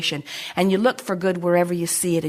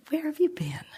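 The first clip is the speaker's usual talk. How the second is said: delighted greeting; 7 semitones higher, 9 dB quieter than usual. Acted. Greeting the arriving wish.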